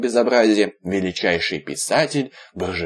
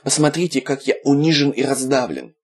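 plaintive; 5 semitones higher than usual. Acted. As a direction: play the wounded puppy. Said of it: "жалобно произнёс Виталик".

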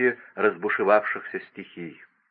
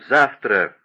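louder, a decisive final fall; firm declaration; 4 dB louder than usual. A narrator's reading. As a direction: land the word like a vow. King corrects himself, repeats word. (громко и твёрдо)

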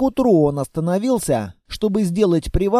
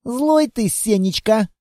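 put-on grumbling girl; 3 semitones higher than usual. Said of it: "бурчало дитя тьмы".

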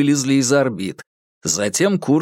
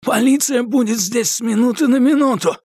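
breathless; 10 semitones higher than usual. A narrator's reading. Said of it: "задыхаясь".

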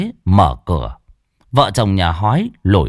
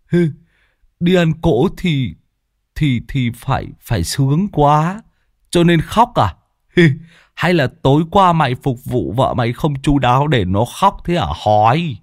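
lightly voiced simple-minded teasing; naive teasing; 6 semitones higher than usual. A narrator's reading. Lâm Sẹo naively mocking Hói, a hint of silly innocence. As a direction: play the dim-witted joker. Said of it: "thì ngây ngô".

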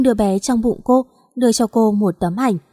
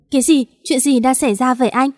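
a mild narrated shout of shock; shocked cry; 3 semitones higher than usual. Acted. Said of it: "gào lên".

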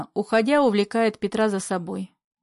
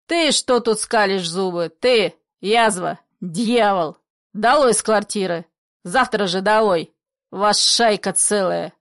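furious eviction; 4 dB louder than usual. Acted. Father driving lodger out.

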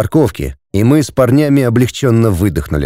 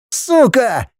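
much higher cry of pain; hammed-up pained yell; 11 semitones higher than usual. Andrei cries out as his arm is twisted, high and pained. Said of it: "заорал Андрей".

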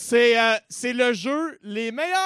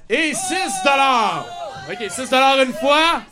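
auctioneer; 2 semitones higher, 3 dB louder than usual. Acted. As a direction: call the bids like an auctioneer. Charity auction, calling bids.

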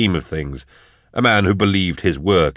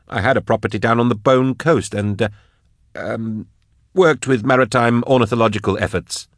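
lightly voiced scholar, halting and higher; higher-pitched, mildly awkward academic; defensive scholar; 5 semitones higher than usual. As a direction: explain yourself haltingly, with hesitations. Narrator voices Drusha explaining himself.

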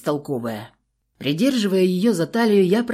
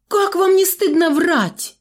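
much higher, louder, slow indignation; indignant outburst; 13 semitones higher, 5 dB louder than usual. A narrator's reading. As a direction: call out the lie, outraged. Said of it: "Возмутилась Варька".

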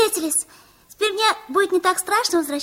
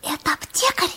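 whisper; faster than usual. Acted. Asking quietly inside the shop.

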